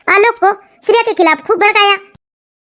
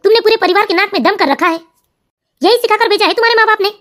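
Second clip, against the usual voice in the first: lower, steadier grown son asking what happened; a son gently pressing his mother; son's voice; 3 semitones lower than usual. Acted. Son asks his weeping mother what happened, lower voice. Son figure rebukes wife.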